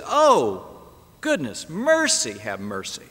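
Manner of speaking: desperate plea for mercy; begging for mercy. Acted. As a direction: beg the master on your knees. Servant begging master on knees.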